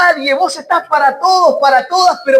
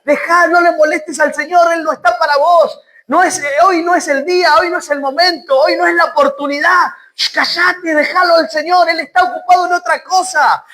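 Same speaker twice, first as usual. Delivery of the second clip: high, insistent scolding with a shush; rebuking; 4 semitones higher than usual. Acted. Crowd telling beggar not to bother the Lord, rebuking. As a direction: hush the pleader, pressing every objection. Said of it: "le reprendían para que callase".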